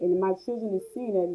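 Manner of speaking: moved mother thanking God, near tears; emotional. Real, not acted. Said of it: "whew, thank you, God".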